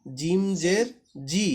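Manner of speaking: slow জিম জের জি with a hard firm জি; জি said hard and strong. Shown as a demonstration. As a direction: press the জি firmly, slowly. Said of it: "জি, শক্ত করে".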